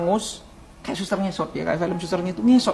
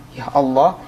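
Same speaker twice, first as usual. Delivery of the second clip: retold wailing plea; 3 semitones higher than usual. Man begging Allah for minutes of life, wailing plea. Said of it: "itu menjerit sama Allah".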